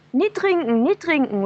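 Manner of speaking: put-on high old woman calling out; old woman warning. Old woman calling from the window, warning the stranger off the water. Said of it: "And an old woman, she leans out".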